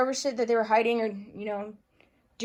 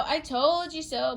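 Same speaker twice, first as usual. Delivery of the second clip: gloating taunt; 4 semitones higher than usual. Retold or imitated. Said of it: "H F I C saying".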